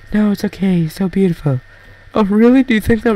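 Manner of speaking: acted flattery. Acted flirty exchange of compliments.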